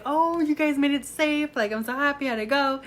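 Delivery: happy greeting. Retold or imitated. Voicing Mister George's happy greeting.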